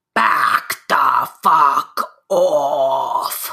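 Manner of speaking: very slow, loud, thundering booming voice. Playing a role, answering the ground shaking, booming loud voice. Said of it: "make my voice boom three times as loud".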